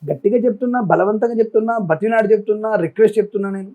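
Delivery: forceful appeal. Real, not acted. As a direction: press hard, like you're begging the crowd. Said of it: "అందుకే ఒక్కొక్కసారి గట్టిగా మాట్లాడుతున్నాను".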